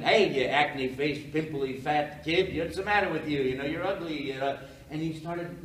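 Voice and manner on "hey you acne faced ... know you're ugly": loud comic jeering; mocking heckler. Comedian picking on a kid at his table, loud mocking jeer. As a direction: pick on someone from the stage, voice raised.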